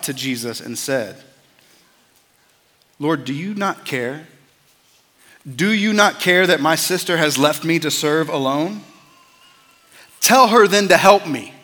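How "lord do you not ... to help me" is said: pleading that swells into a louder demand; frustrated complaint. Acted. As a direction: voice Martha's exasperation at being left alone. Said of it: "sense the frustration in Martha's voice".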